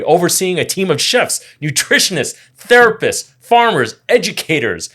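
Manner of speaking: rising, punched list of roles; announcer-style listing. Acted.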